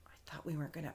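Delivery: hushed mock whisper; conspiratorial whisper, barely voiced; whispered aside. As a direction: say it under your breath like a secret. Retold writers' aside, whispered.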